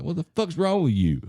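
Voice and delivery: loud, high mock yell at his son. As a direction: bark it out as the tipsy dad. Dad turns and yells at him.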